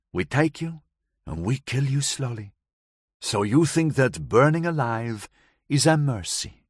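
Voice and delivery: put-on light foreign accent, woman recounting; Gabriella's voice. Gabriella tells the narrator of that night, lightly accented.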